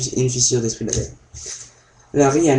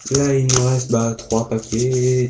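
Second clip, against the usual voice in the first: slowing down; slower than usual. Real, not acted. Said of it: "là je vais me ralentir".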